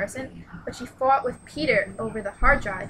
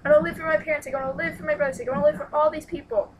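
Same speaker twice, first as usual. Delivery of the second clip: pitched-up, insistent acted pleading; desperate plea; 5 semitones higher, 5 dB louder, faster than usual. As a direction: plead for life, building a list. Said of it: "Like, in her head, she's like".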